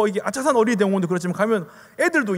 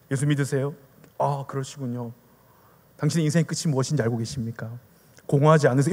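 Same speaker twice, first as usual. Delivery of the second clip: low-pitched, courteous questioning; gentle; 6 semitones lower than usual. Shown as a demonstration. Trainee showing how to evangelize politely, gentle. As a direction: ask mildly, without pressing. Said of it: "좀 이렇게 젠틀하게".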